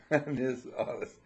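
says Man is alles, half in German; repeating the German phrase with a laugh; Man ist alles, halb auf Deutsch gesprochen; German mix. Shown as a demonstration. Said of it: "Man ist alles".

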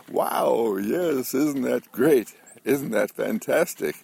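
hammed-up cheering along; enthusiastic.

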